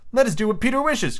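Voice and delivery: put-on high-pitched simple-boy voice; acted boyish cry. A narrator's reading. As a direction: chime in high like an obedient child. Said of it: "cried the simple boys".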